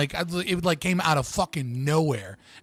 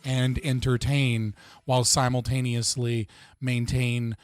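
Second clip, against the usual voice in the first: flat, low monotone; 3 semitones lower than usual. Real, not acted. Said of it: "I was being genuine with that monotone voice".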